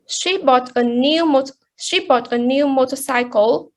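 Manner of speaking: "she" stressed, the rest of the sentence lighter. Shown as a demonstration. Presenter showing who bought the motorcycle, stress on "she". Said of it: "she is the one who bought".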